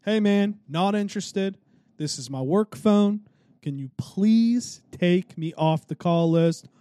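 measured and courteous, stretching out the plea at the end; cool, calm, kind. Retold or imitated. Turning down a repeat caller, trying to stay cool and kind. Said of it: "Trying to keep it cool, calm, kind".

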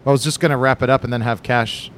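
talking with food in mouth; words around a bite; chewing while talking. Real, not acted. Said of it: "Stop eating into the microphone".

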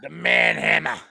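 put-on low, heavy Austrian-accented growl; Arnold Schwarzenegger impression. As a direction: say it like an action hero. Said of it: "that was the Arnold Schwarzenegger".

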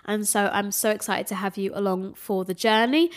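stuffy nose voice; nasal voice. Real, not acted. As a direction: talk through a blocked nose. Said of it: "Excuse my very nasally voice".

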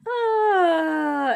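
long loud "ah", sliding down from high; drawn-out wail. Real, not acted. Fan swooning over the smolder on a podcast, drawn-out wail.

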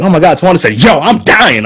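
high-pitched mocking imitation of her; exaggerated mimicking. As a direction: overdo it high and swooping, like a bad impression. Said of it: "they would repeat what I just said as me, quote unquote".

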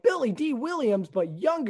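lightly voiced smooth charmer; Billy Dee Williams impression. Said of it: "I love saying Billy D Williams like that".

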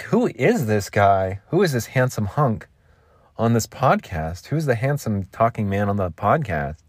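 playful wondering, leaning on key words; mock admiration with swooping emphasis; intrigued listener. Friends in the car hearing the podcast, mock-intrigued admiration. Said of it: "they're like".

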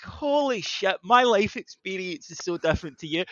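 high, mock astonishment; retold amazement. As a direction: marvel at how different her world is.

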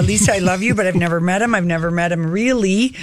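put-on old chain smoker voice; smoker's rasp. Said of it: "her eighty-year-old chain smoker voice".

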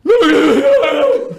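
a loud, high burst of laughter. Real, not acted. Laughing at his own crying story, a loud high laugh.

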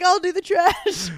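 a giggly, overeager 'I'll do it'; laughing volunteer. Retold or imitated. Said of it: "And I'm like".

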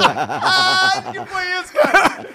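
high laughing disbelief; giggling, half-scandalized. Real, not acted. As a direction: laugh through the words in real amusement. Laughing at host's story.

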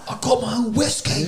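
high-pitched playful "whoa"; mock alarm. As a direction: act out backing someone off in a high voice. Retold bar confrontation, acted out.

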